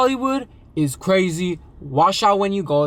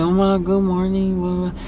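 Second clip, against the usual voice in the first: higher-pitched mock voice of the man; mimicked morning greeting; 5 semitones higher than usual. Storyteller mimicking the man waking beside her, higher mock greeting. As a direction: lightly imitate him in a raised, held pitch.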